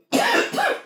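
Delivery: rough smoker's cough fit. Real, not acted. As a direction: cough hard like a heavy smoker. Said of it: "Smoker's cough".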